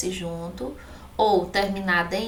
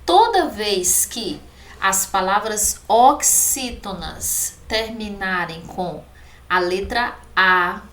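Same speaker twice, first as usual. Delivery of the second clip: ordinary talk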